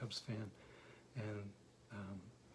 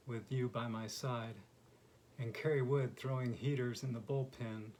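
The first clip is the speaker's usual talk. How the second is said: measured, deliberate poetry recital; poem reading. Acted. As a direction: read your own poem aloud, pausing between lines. Reads own baseball poem aloud.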